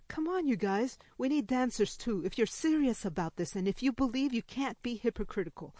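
a touch of eager urging; urging fairy. Acted. Fairy urges the group to dance.

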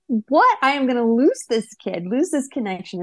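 sudden panic at losing him; retold alarm. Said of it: "I was like".

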